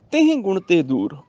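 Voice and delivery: ਤੇਹ said with its h sound, not as ਤੇ. Shown as a demonstration. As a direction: read ਤੇਹ slowly with the breathed h kept. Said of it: "ਇਹਨੂੰ ਤੇਹ ਪੜ੍ਹਨਾ ਹੈਗਾ".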